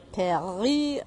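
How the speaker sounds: "Paris" said the French way, drawn out as "Paree"; "Paris" as a long, playful French "pa-REE"; playful French pronunciation. Acted. Playfully gives city its French name.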